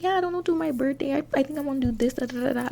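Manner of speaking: high, breezy voice for Betty; mocking Betty. Narrator mimics Betty chatting about birthday plans, high and airy. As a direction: chirp her birthday plans back lightly. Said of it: "Betty was like".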